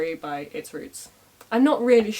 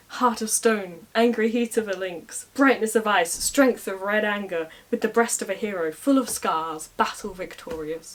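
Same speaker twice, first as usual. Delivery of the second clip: grand declamation. Retold or imitated. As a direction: declaim it like a bard. Ritual poetic greeting of rival.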